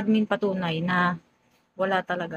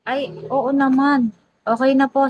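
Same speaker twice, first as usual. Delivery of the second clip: ordinary talk, nothing marked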